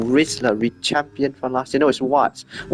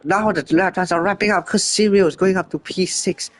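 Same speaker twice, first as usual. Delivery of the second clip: high-pitched rush over a record lap; the first twenty-nine of the day, shouted up high; excited commentary; 6 semitones higher than usual. Real, not acted. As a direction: call the shock lap with rising thrill. Surprise pole lap by Marco.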